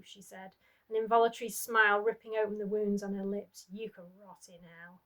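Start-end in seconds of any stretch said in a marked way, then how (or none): 3.7-5.0 quiet curse. Acted.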